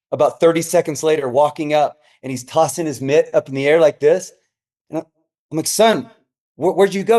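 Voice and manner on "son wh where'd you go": high, baffled question; puzzled dad. Retold or imitated. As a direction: ask like a confused father. Dad asks son after loss.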